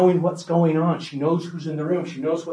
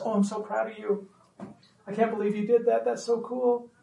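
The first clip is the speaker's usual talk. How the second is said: high, sing-out gushing praise; high-pitched, over-the-top praise; gushing cheerleader; 6 semitones higher, 4 dB quieter than usual. Acted. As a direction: gush like an over-proud parent cheerleader. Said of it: "we'd be a cheerleader".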